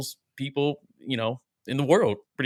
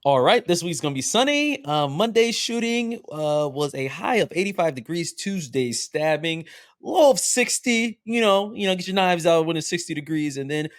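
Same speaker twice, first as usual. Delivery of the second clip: weather report voice; 4 semitones higher than usual. Pretend. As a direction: read it like a TV weatherman. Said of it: "almost like with the weather".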